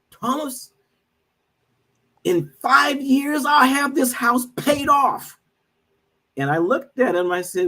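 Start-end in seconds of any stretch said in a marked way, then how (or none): 0.1-5.4 put-on high, slow Trinidadian accent, full of swagger; a friend imitated in a Trinidadian lilt, drawn out; thick Trinidadian accent. Friend boasting to him about paying off his house, in a Trinidadian accent. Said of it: "he says in this thick Trinidadian accent".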